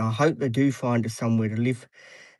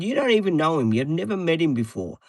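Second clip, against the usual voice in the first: raised, higher retelling of his protest to mother; retold protest; 5 semitones higher than usual. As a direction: push back at mother, higher and firmer.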